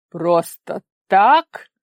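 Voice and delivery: very slow, loud disbelieving repeat; menacing echo. A narrator's reading. Father echoing his daughter's excuse, slow, loud and menacing. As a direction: throw her words back at her.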